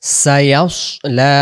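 "ইয়াস" rounded like "yaws", "লা" held long; rounded recitation. Shown as a demonstration. Teacher drilling students on the word, "ইয়াস" rounded and heavy. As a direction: round and thicken "ইয়াস", then stretch "লা". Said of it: "আমার সাথে সাথে পড়ার চেষ্টা করেন".

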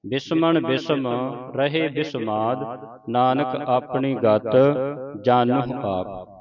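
slow, deliberate recitation of verse; scripture recitation. Shown as a demonstration. Teacher leads the congregation through the verses, slow recitation. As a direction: draw out each phrase, pausing between them.

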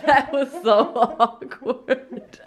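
slow, laughing cringe; embarrassed laugh. Real, not acted. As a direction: drag it out while laughing.

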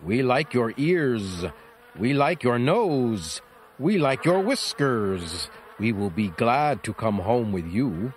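a lightly voiced lazy bee. Bees speak in story.

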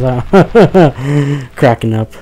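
chuckling through the punchline; laughing at own joke. Real, not acted. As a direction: laugh as you repeat the bad joke. Repeats punchline, laughing at himself.

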